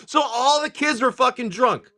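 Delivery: high, slow laughing exclamation; real laughter lifting the voice. Real, not acted. Storyteller cracks up over the drunk kids, laughing.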